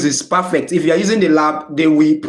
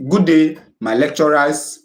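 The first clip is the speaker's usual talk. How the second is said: slow model greeting. Shown as a demonstration. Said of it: "So you can say".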